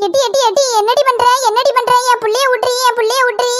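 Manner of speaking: mother frantically begging for her son; frantic pleading. Acted. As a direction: plead desperately to let her child go.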